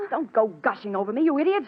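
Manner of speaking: snapping at a gushing sister; irritated. Acted. Helen rejects her sister's gushing, irritated. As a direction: push her away with rising irritation.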